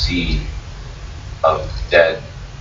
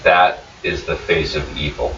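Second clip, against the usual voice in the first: lightly voiced stunned Nosta; 4 semitones lower than usual. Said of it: "this is all he's able to say".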